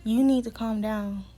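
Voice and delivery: mock-calm, measured instruction; irritatingly calm. Staff member tells an upset resident to settle, mildly irritating calm. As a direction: imitate an annoyingly calm staffer, only lightly put on. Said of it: "in the most calmest and irritating fucking voice".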